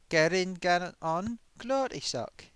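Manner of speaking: playful Southern twang on a fan's comment; light Southern accent. Retold or imitated. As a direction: read the comment in a mild American Southern accent. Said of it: "I did a little bit of a Southern accent".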